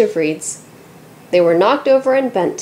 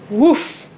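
mild woof; 3 semitones higher than usual. A narrator's reading. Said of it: "barked Lupo".

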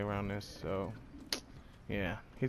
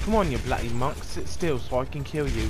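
put-on louder jokey British accent; mock British accent; 5 dB louder than usual. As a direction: taunt the enemy in a hammed-up British accent. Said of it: "Pretty good British accent, huh?".

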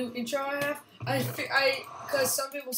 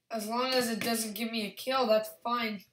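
sarcastic. Acted. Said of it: "Sarcasm, guys".

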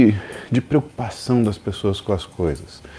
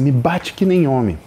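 demanding; 4 semitones higher than usual. Retold or imitated. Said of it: "dá um tapão na cara dele e fala assim".

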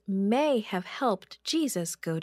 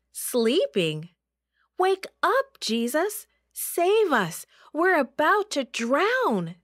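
high, loud frantic cries; panicked yelling; 6 semitones higher, 4 dB louder, slower than usual. Acted. Disciples begging Jesus to save them, frantic loud yell. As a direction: scream for help, terrified. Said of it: "they yelled".

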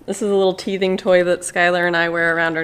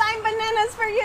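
sing-song reading; 12 semitones higher than usual. Retold or imitated. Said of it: "It says".

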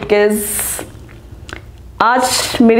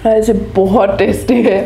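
talking between bites; chewing while talking. Real, not acted. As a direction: mouth partly full of food. Seen 0: Bites roll just before; lips pursed, chewing motions until about 2.1s.

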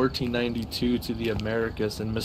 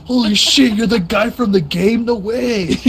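high, loud laughing disbelief; 12 semitones higher, 8 dB louder than usual. Real, not acted. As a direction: laugh through the shock. Laughing in shock.

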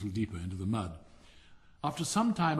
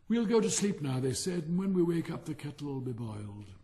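lightly voiced boy; 3 semitones higher, 3 dB louder than usual. Boys voiced in story.

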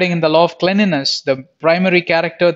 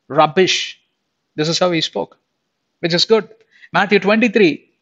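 ordinary talk

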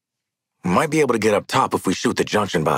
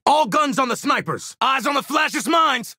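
raised, urgent squad command; combat orders; 4 semitones higher than usual. Acted. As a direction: call targets out across the battlefield.

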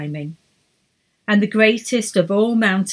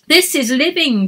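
thrilled, higher cry; excited cry; 7 semitones higher, 5 dB louder than usual. A narrator's reading. Emma leaping a crevice, thrilled cry. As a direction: call it out full of joy. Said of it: "cried Emma".

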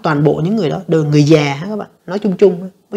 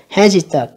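Hesitate, first syllable stressed; 2 semitones higher, slower than usual. Shown as a demonstration. Teacher showing students the stress, first-syllable stress on Hesitate. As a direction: hit the opening syllable of Hesitate. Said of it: "nhấn âm đầu".

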